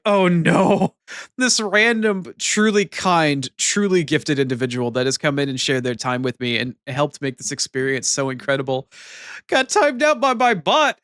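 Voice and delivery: overplayed dismay at her own bot; mock despair. Streamer re-enacting her bot timing out a kind viewer, mock despair. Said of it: "but I was like".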